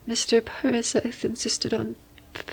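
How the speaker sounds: ordinary talk, nothing marked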